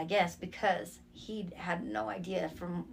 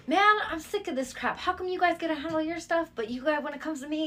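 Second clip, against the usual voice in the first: retold angry outburst; 8 semitones higher than usual. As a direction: vent it like you've had enough. Retold rant at her uncle.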